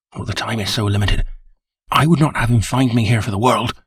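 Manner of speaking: a frightened man pressed for time; nervous manager. Acted. Nervous manager Bates talks.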